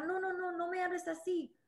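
mock a fragile little protest; too delicate. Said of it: "Muy delicada".

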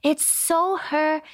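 high, drawn-out quote of a delighted mother; gushing mom. Retold or imitated. Retelling mom's call about the song, gushing. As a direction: gush slowly, up high, imitating mom. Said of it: "my mom called me, and she goes".

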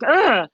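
exasperated mock groan; frustrated ugh. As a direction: let out a retold exasperated ugh. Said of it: "I'm, like, rage-filled".

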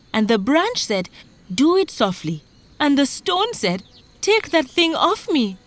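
agitated retelling, high and forceful; frightened farmer. Acted. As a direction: spill out the troubles insistently. Farmer breathlessly repeats his frightened account.

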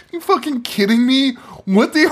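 high-pitched, incredulous laughter; helpless laughter squeezing the words high; laughing disbelief. Real, not acted. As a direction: crack up in real disbelief. Incredulous reaction while cracking up.

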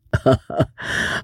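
short voiceless chuckle; light laugh. Acted. Reacting to a witty complaint, a short chuckle. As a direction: let out a brief acted chuckle. Acted laugh between speeches.

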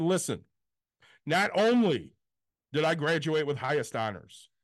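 pointed, sarcastic comeback; snarky retort. Retold or imitated. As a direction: lecture the agent, then pitch up the final dig. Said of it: "I got really fucking snarky".

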